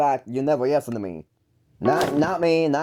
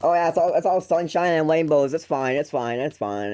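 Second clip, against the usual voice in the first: masked cheerfulness. Acted. Wearing an invisible mask for brother, falsely cheerful. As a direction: pretend all is well, losing steam. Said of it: "putting on this invisible mask".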